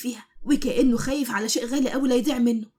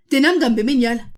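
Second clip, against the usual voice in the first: louder, outraged repeat of the shout; angry yell; 7 dB louder than usual. Acted. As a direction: shout it back at him, furious. Wife repeats her angry shout.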